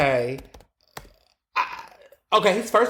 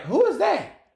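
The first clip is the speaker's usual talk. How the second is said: puzzled; 14 semitones higher than usual. Retold or imitated. Retold friends asking.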